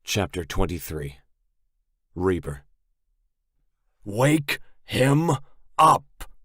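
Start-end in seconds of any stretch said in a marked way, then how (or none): 4.0-6.3 loud high yell. A narrator's reading. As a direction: yell it at the top of your lungs. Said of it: "I yell at the top of my lungs".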